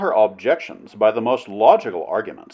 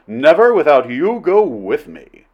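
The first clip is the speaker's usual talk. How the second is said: higher, louder passionate vow; 5 semitones higher, 5 dB louder than usual. A narrator's reading. Flynn urges the princess to go with him, passionate. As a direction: insist ardently. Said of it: "he cried passionately".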